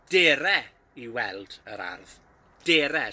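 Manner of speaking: Dere as deh-reh, stressed and clear; teacher modelling the informal form; informal Welsh phrase. Shown as a demonstration. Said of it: "informal way with a friend".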